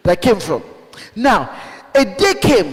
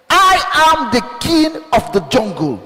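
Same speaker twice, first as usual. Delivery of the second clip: proud lion's challenge; 5 semitones higher than usual. Acted. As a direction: dare each beast to come, like the king of the jungle. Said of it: "a lion says".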